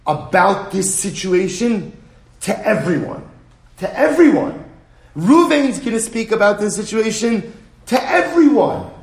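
high, loud worked-up rant; heated gossip. Retold or imitated. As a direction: whip up the crowd. Imitating feuding gossip.

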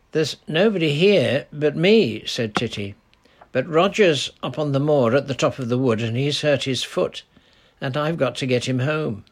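put-on urgent little girl explaining; lightly voiced girl asking for help; young girl Titty. Titty answers, worried.

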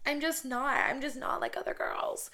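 mock a coy, quirky girl; hammed-up cutesy pick-me voice; Debbie Ryan. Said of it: "the Debbie Ryan right now".

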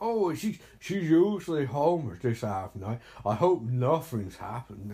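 hammed-up English film-dialogue accent; terrible English accent. Viewer mimics film line about Emily, bad English accent. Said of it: "That's a terrible accent".

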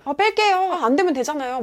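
defensive reply, pitch jumping up; flustered retort. Retold or imitated. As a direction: imitate a flustered, defensive driver. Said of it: "당황해가지고".

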